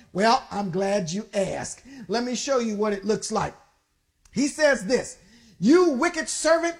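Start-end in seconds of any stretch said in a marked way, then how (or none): 5.6-6.8 roared. Acted. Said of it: "the king roared".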